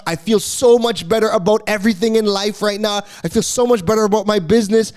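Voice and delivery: light mock of a gushing reviewer, ending half sung; hammed-up fan praising their coach; lightly voiced client raving about the coach; gushing testimonial voice. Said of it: "your testimonials will be like".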